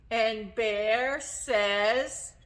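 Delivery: put-on stretched out cue for children; slow cue. Shown as a demonstration. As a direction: drag it so kids answer. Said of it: "Don't forget your job".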